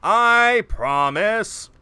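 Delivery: very slow, loud hammy promise; overplayed solemn vow; bad actor voice. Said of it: "this bad actor voice".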